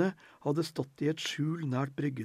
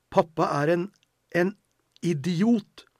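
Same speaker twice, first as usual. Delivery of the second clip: higher, louder angry cry; boy bursting out at his sister in anger; angry outburst; 5 semitones higher, 8 dB louder than usual. A narrator's reading. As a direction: spit out the insult. Boy insults father to sister.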